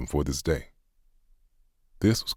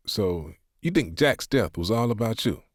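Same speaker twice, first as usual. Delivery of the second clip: sarcastic; 6 semitones higher than usual. A narrator's reading. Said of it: "Doug responded with a bit of sarcasm".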